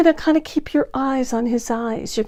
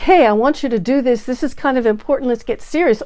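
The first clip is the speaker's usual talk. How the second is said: pushy controlling; 3 semitones higher, 4 dB louder than usual. Shown as a demonstration. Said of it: "This is like".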